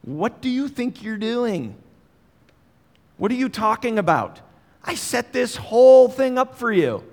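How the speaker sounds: high-pitched exasperated telling-off; parental scolding. Acted. Peter taking Jesus aside to rebuke him, exasperated parental scolding. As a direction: scold like a parent who can't believe it. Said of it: "I'm gonna have a talking to you about your bad behavior".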